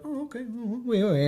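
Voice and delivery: high-pitched voice of the French shop lady; bookstore lady. Retold or imitated. Man imitating the French bookstore lady, high and light.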